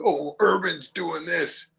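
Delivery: high, slow sneering mimic of the chatters; mocking voice, high and drawn out; mocking whiny quote. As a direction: put on a silly voice to mock them. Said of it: "and they're like".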